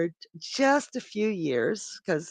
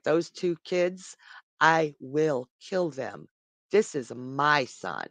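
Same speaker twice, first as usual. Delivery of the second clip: menacing father god; 2 semitones lower, slower than usual. Acted. Poseidon threatens, voiced father god.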